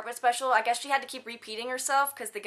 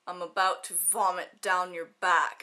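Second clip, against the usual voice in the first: lower, slow and mildly sinister; mock menacing quote; 5 semitones lower, slower than usual. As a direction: lightly play a creepy threat, low and drawn out. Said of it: "she didn't say it like that".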